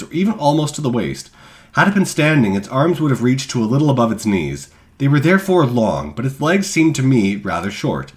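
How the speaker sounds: a hint of a Dutch accent. Shown as a demonstration. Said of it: "That's the best I can do".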